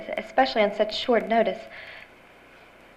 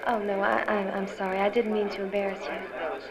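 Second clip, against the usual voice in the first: embarrassed apology; 2 semitones lower, 7 dB quieter than usual. Acted.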